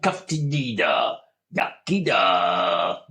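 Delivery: slow, hammed-up Welsh accent. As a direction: stretch it out in a mock Welsh lilt. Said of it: "That'd be something Welsh then".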